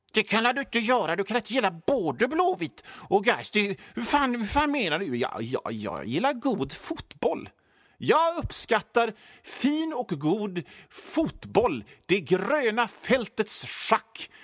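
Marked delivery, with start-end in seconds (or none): 0.1-5.2 higher-pitched mock protest; acted-out indignant challenge; outraged objector. 5.7-14.3 slow, savouring pronouncements; teasingly measured football appreciation; mock connoisseur. Plays connoisseur provoking the fans.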